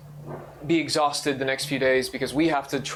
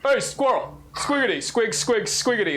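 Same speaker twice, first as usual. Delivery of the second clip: squeaky rubber duck; 8 semitones higher than usual. Acted. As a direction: squeak it out like a tiny animal. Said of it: "is what you guys hear".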